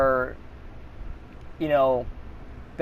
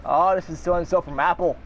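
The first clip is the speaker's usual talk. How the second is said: put-on Indian accent. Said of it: "I can't really do a good Indian accent".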